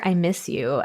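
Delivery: "I miss you" said softly, with real feeling; mean it, let it land gently; emotional, sincere. Shown as a demonstration. Telling a partner she misses them, sincere and soft. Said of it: "really emotional".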